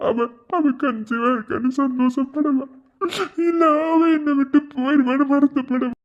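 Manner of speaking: tearful, words through crying. Acted. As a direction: speak through tears. Brother crying about sister.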